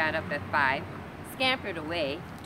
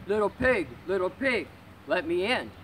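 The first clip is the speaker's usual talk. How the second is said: louder wolf voice at the door; wolf calling in; 4 dB louder than usual. Acted. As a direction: call to be let in.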